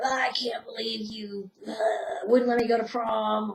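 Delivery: whispered mock grievance; angry letter. Writing the super angry letter to parents, whispered grievance. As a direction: hiss out the old grudge. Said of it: "super angry letter".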